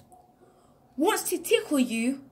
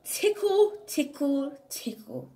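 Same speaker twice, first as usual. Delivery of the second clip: playful tickle call; 4 semitones higher than usual. Acted. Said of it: "And I say".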